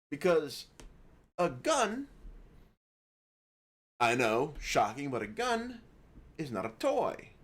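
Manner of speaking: mock lecture. Host teasing viewers about gun safety, mock lecture.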